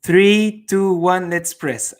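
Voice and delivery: high, loud imitated countdown; mock countdown. Friends timing their arrival in chat together, mock countdown. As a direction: count down like plotters about to hit the button. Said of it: "you were like".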